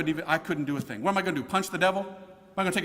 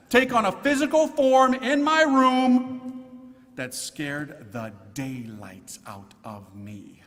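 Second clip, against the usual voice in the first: hushed dread; 4 dB louder, much slower than usual. Retold or imitated. Telling the crowd how the demon appeared, trailing into a slow hush. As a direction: let the dread sink to near silence.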